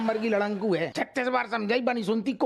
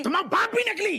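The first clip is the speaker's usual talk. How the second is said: laughing retort; 8 semitones higher, faster than usual. Acted. Quarrel over fake necklace.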